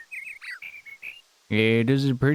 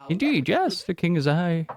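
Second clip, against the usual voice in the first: pompous king; 5 semitones higher than usual. Acted. Voices the king character.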